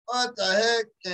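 drawn-out, slow "What the heck?", stunned. Retold or imitated. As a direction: let "What the heck?" hang, slowly. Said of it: "And I was all like".

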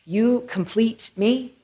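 slow, measured movie quote; Hollywood romantic line. Acted. Speaker quoting Hollywood's three little words, slow romantic line. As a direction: draw out the famous line slowly. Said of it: "Hollywood ... with three little words".

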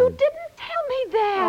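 indignant accusation. Acted. Wife accuses husband over moving date, slow high indignant outburst. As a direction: let the outrage break through in a slow, rising complaint.

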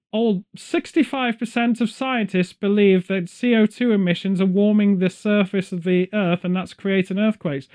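lightly voiced old English lady; a hint of an old English lady reading the news. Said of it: "why were you speaking like an old English lady?".

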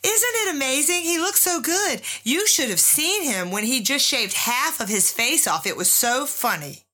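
high, gushing mock girlfriend voice; lightly voiced admiring girlfriend. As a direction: gush like a smitten girlfriend. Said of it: "comes up over his shoulder and says".

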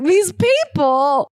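high, drawn-out mocking sigh of a phrase; mock exasperation. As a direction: imitate a fussy rich lady, slowly. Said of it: "and being like".

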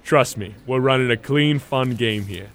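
low hustler's reassurance; put-on smooth talk. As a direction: win their trust, voice dropped low. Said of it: "Stop talking like that".

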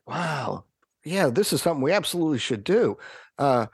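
excited boss. Retold or imitated. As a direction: play the boss suddenly keen and impatient. Boss quoted, asks for Clive and Jeeves.

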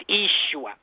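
"Yeshua" opening on a long EE, EE-shoo-ah; Aramaic pronunciation. Shown as a demonstration. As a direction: say "Yeshua" with no Y sound, starting ee. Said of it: "Y is really a double E sound".

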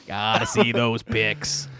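slow quiet mock plea to a buddy; imitating a soft plea. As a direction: coax gently like a buddy. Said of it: "Don't call him out".

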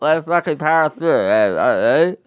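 choking while talking; talking through a choke. Real, not acted. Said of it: "Why are you choking now?".

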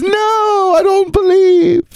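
high, slow wailing cry of a burning heretic; anguished wail. Retold or imitated. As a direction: wail it out as if burned at the stake. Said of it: "being burned at the stake".

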